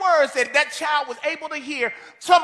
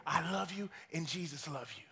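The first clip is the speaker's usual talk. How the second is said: much softer, lower and hushed; soft whisper; 10 semitones lower, 14 dB quieter than usual. Retold or imitated. Woman whispering tenderly to the little boy on her lap. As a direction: breathe it into a child's ear. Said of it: "she would whisper in his ear".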